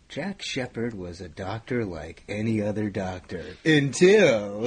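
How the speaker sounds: slow dramatic trailer read; movie trailer voice. Shown as a demonstration. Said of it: "You have to say something like".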